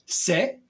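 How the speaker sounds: "Sébastien" in three pieces with long pauses between; split into syllables. Shown as a demonstration. Performer letting the name's sounds be heard, "Sébastien" split by long pauses. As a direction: pull "Sébastien" apart, syllable by syllable. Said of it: "le son que fait le prénom".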